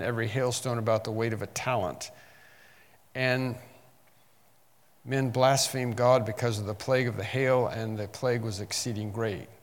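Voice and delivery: emphatic Bible reading, strong openings that settle; preacher reading judgment aloud; scripture reading. Acted. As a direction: launch each verse firmly, then let it fall. Reads scripture aloud to listeners.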